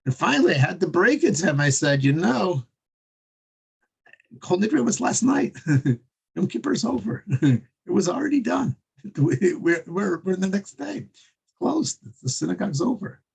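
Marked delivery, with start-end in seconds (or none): 2.0-13.2 high, laughing disbelief. Retold or imitated. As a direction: break the news through laughter. Breaking sad news to stranger.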